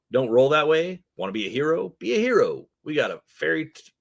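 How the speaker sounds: eager street hustler's sales pitch; twitchy orc dealer. Acted. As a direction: hawk the goods with big swooping pitch.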